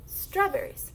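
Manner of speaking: Strawberries as one joined word. Shown as a demonstration. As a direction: say Strawberries at speaking speed, falling. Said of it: "the faster you say it".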